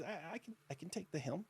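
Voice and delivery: very high, small voice from a huge brute; tiny minotaur voice. Acted. First mate greets his captain in a tiny high voice. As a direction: squeak it like a tiny-voiced giant. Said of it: "the tiniest voice".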